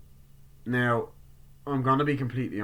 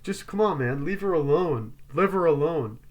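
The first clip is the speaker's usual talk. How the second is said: raised, loud, higher acted demand; heated mock warning; insistent telling-off; 6 semitones higher, 4 dB louder than usual. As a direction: press the order harder each time. Acting a character telling another off.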